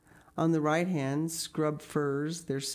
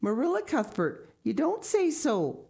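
much higher, dismayed exclamation; in distress; 9 semitones higher than usual. A narrator's reading. Mrs Spencer hears they wanted a boy, distressed and high. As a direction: gasp it out in dismay. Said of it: "said Missus Spencer in distress".

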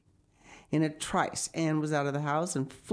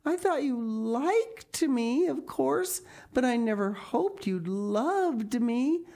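put-on high, gushing girlish rapture; Anne, overwhelmed with wonder; 5 semitones higher than usual. Anne learns that Diana loves her, high rapturous wonder. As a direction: start very high, then gush romantically. Voices Anne's amazed speech.

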